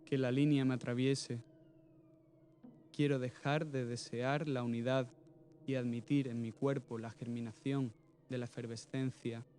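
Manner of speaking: measured poetry reading with deliberate pauses; earnest spoken verse, pausing between images; poem recitation. Acted. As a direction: recite it line by line, letting each phrase land. Reads second untitled poem aloud.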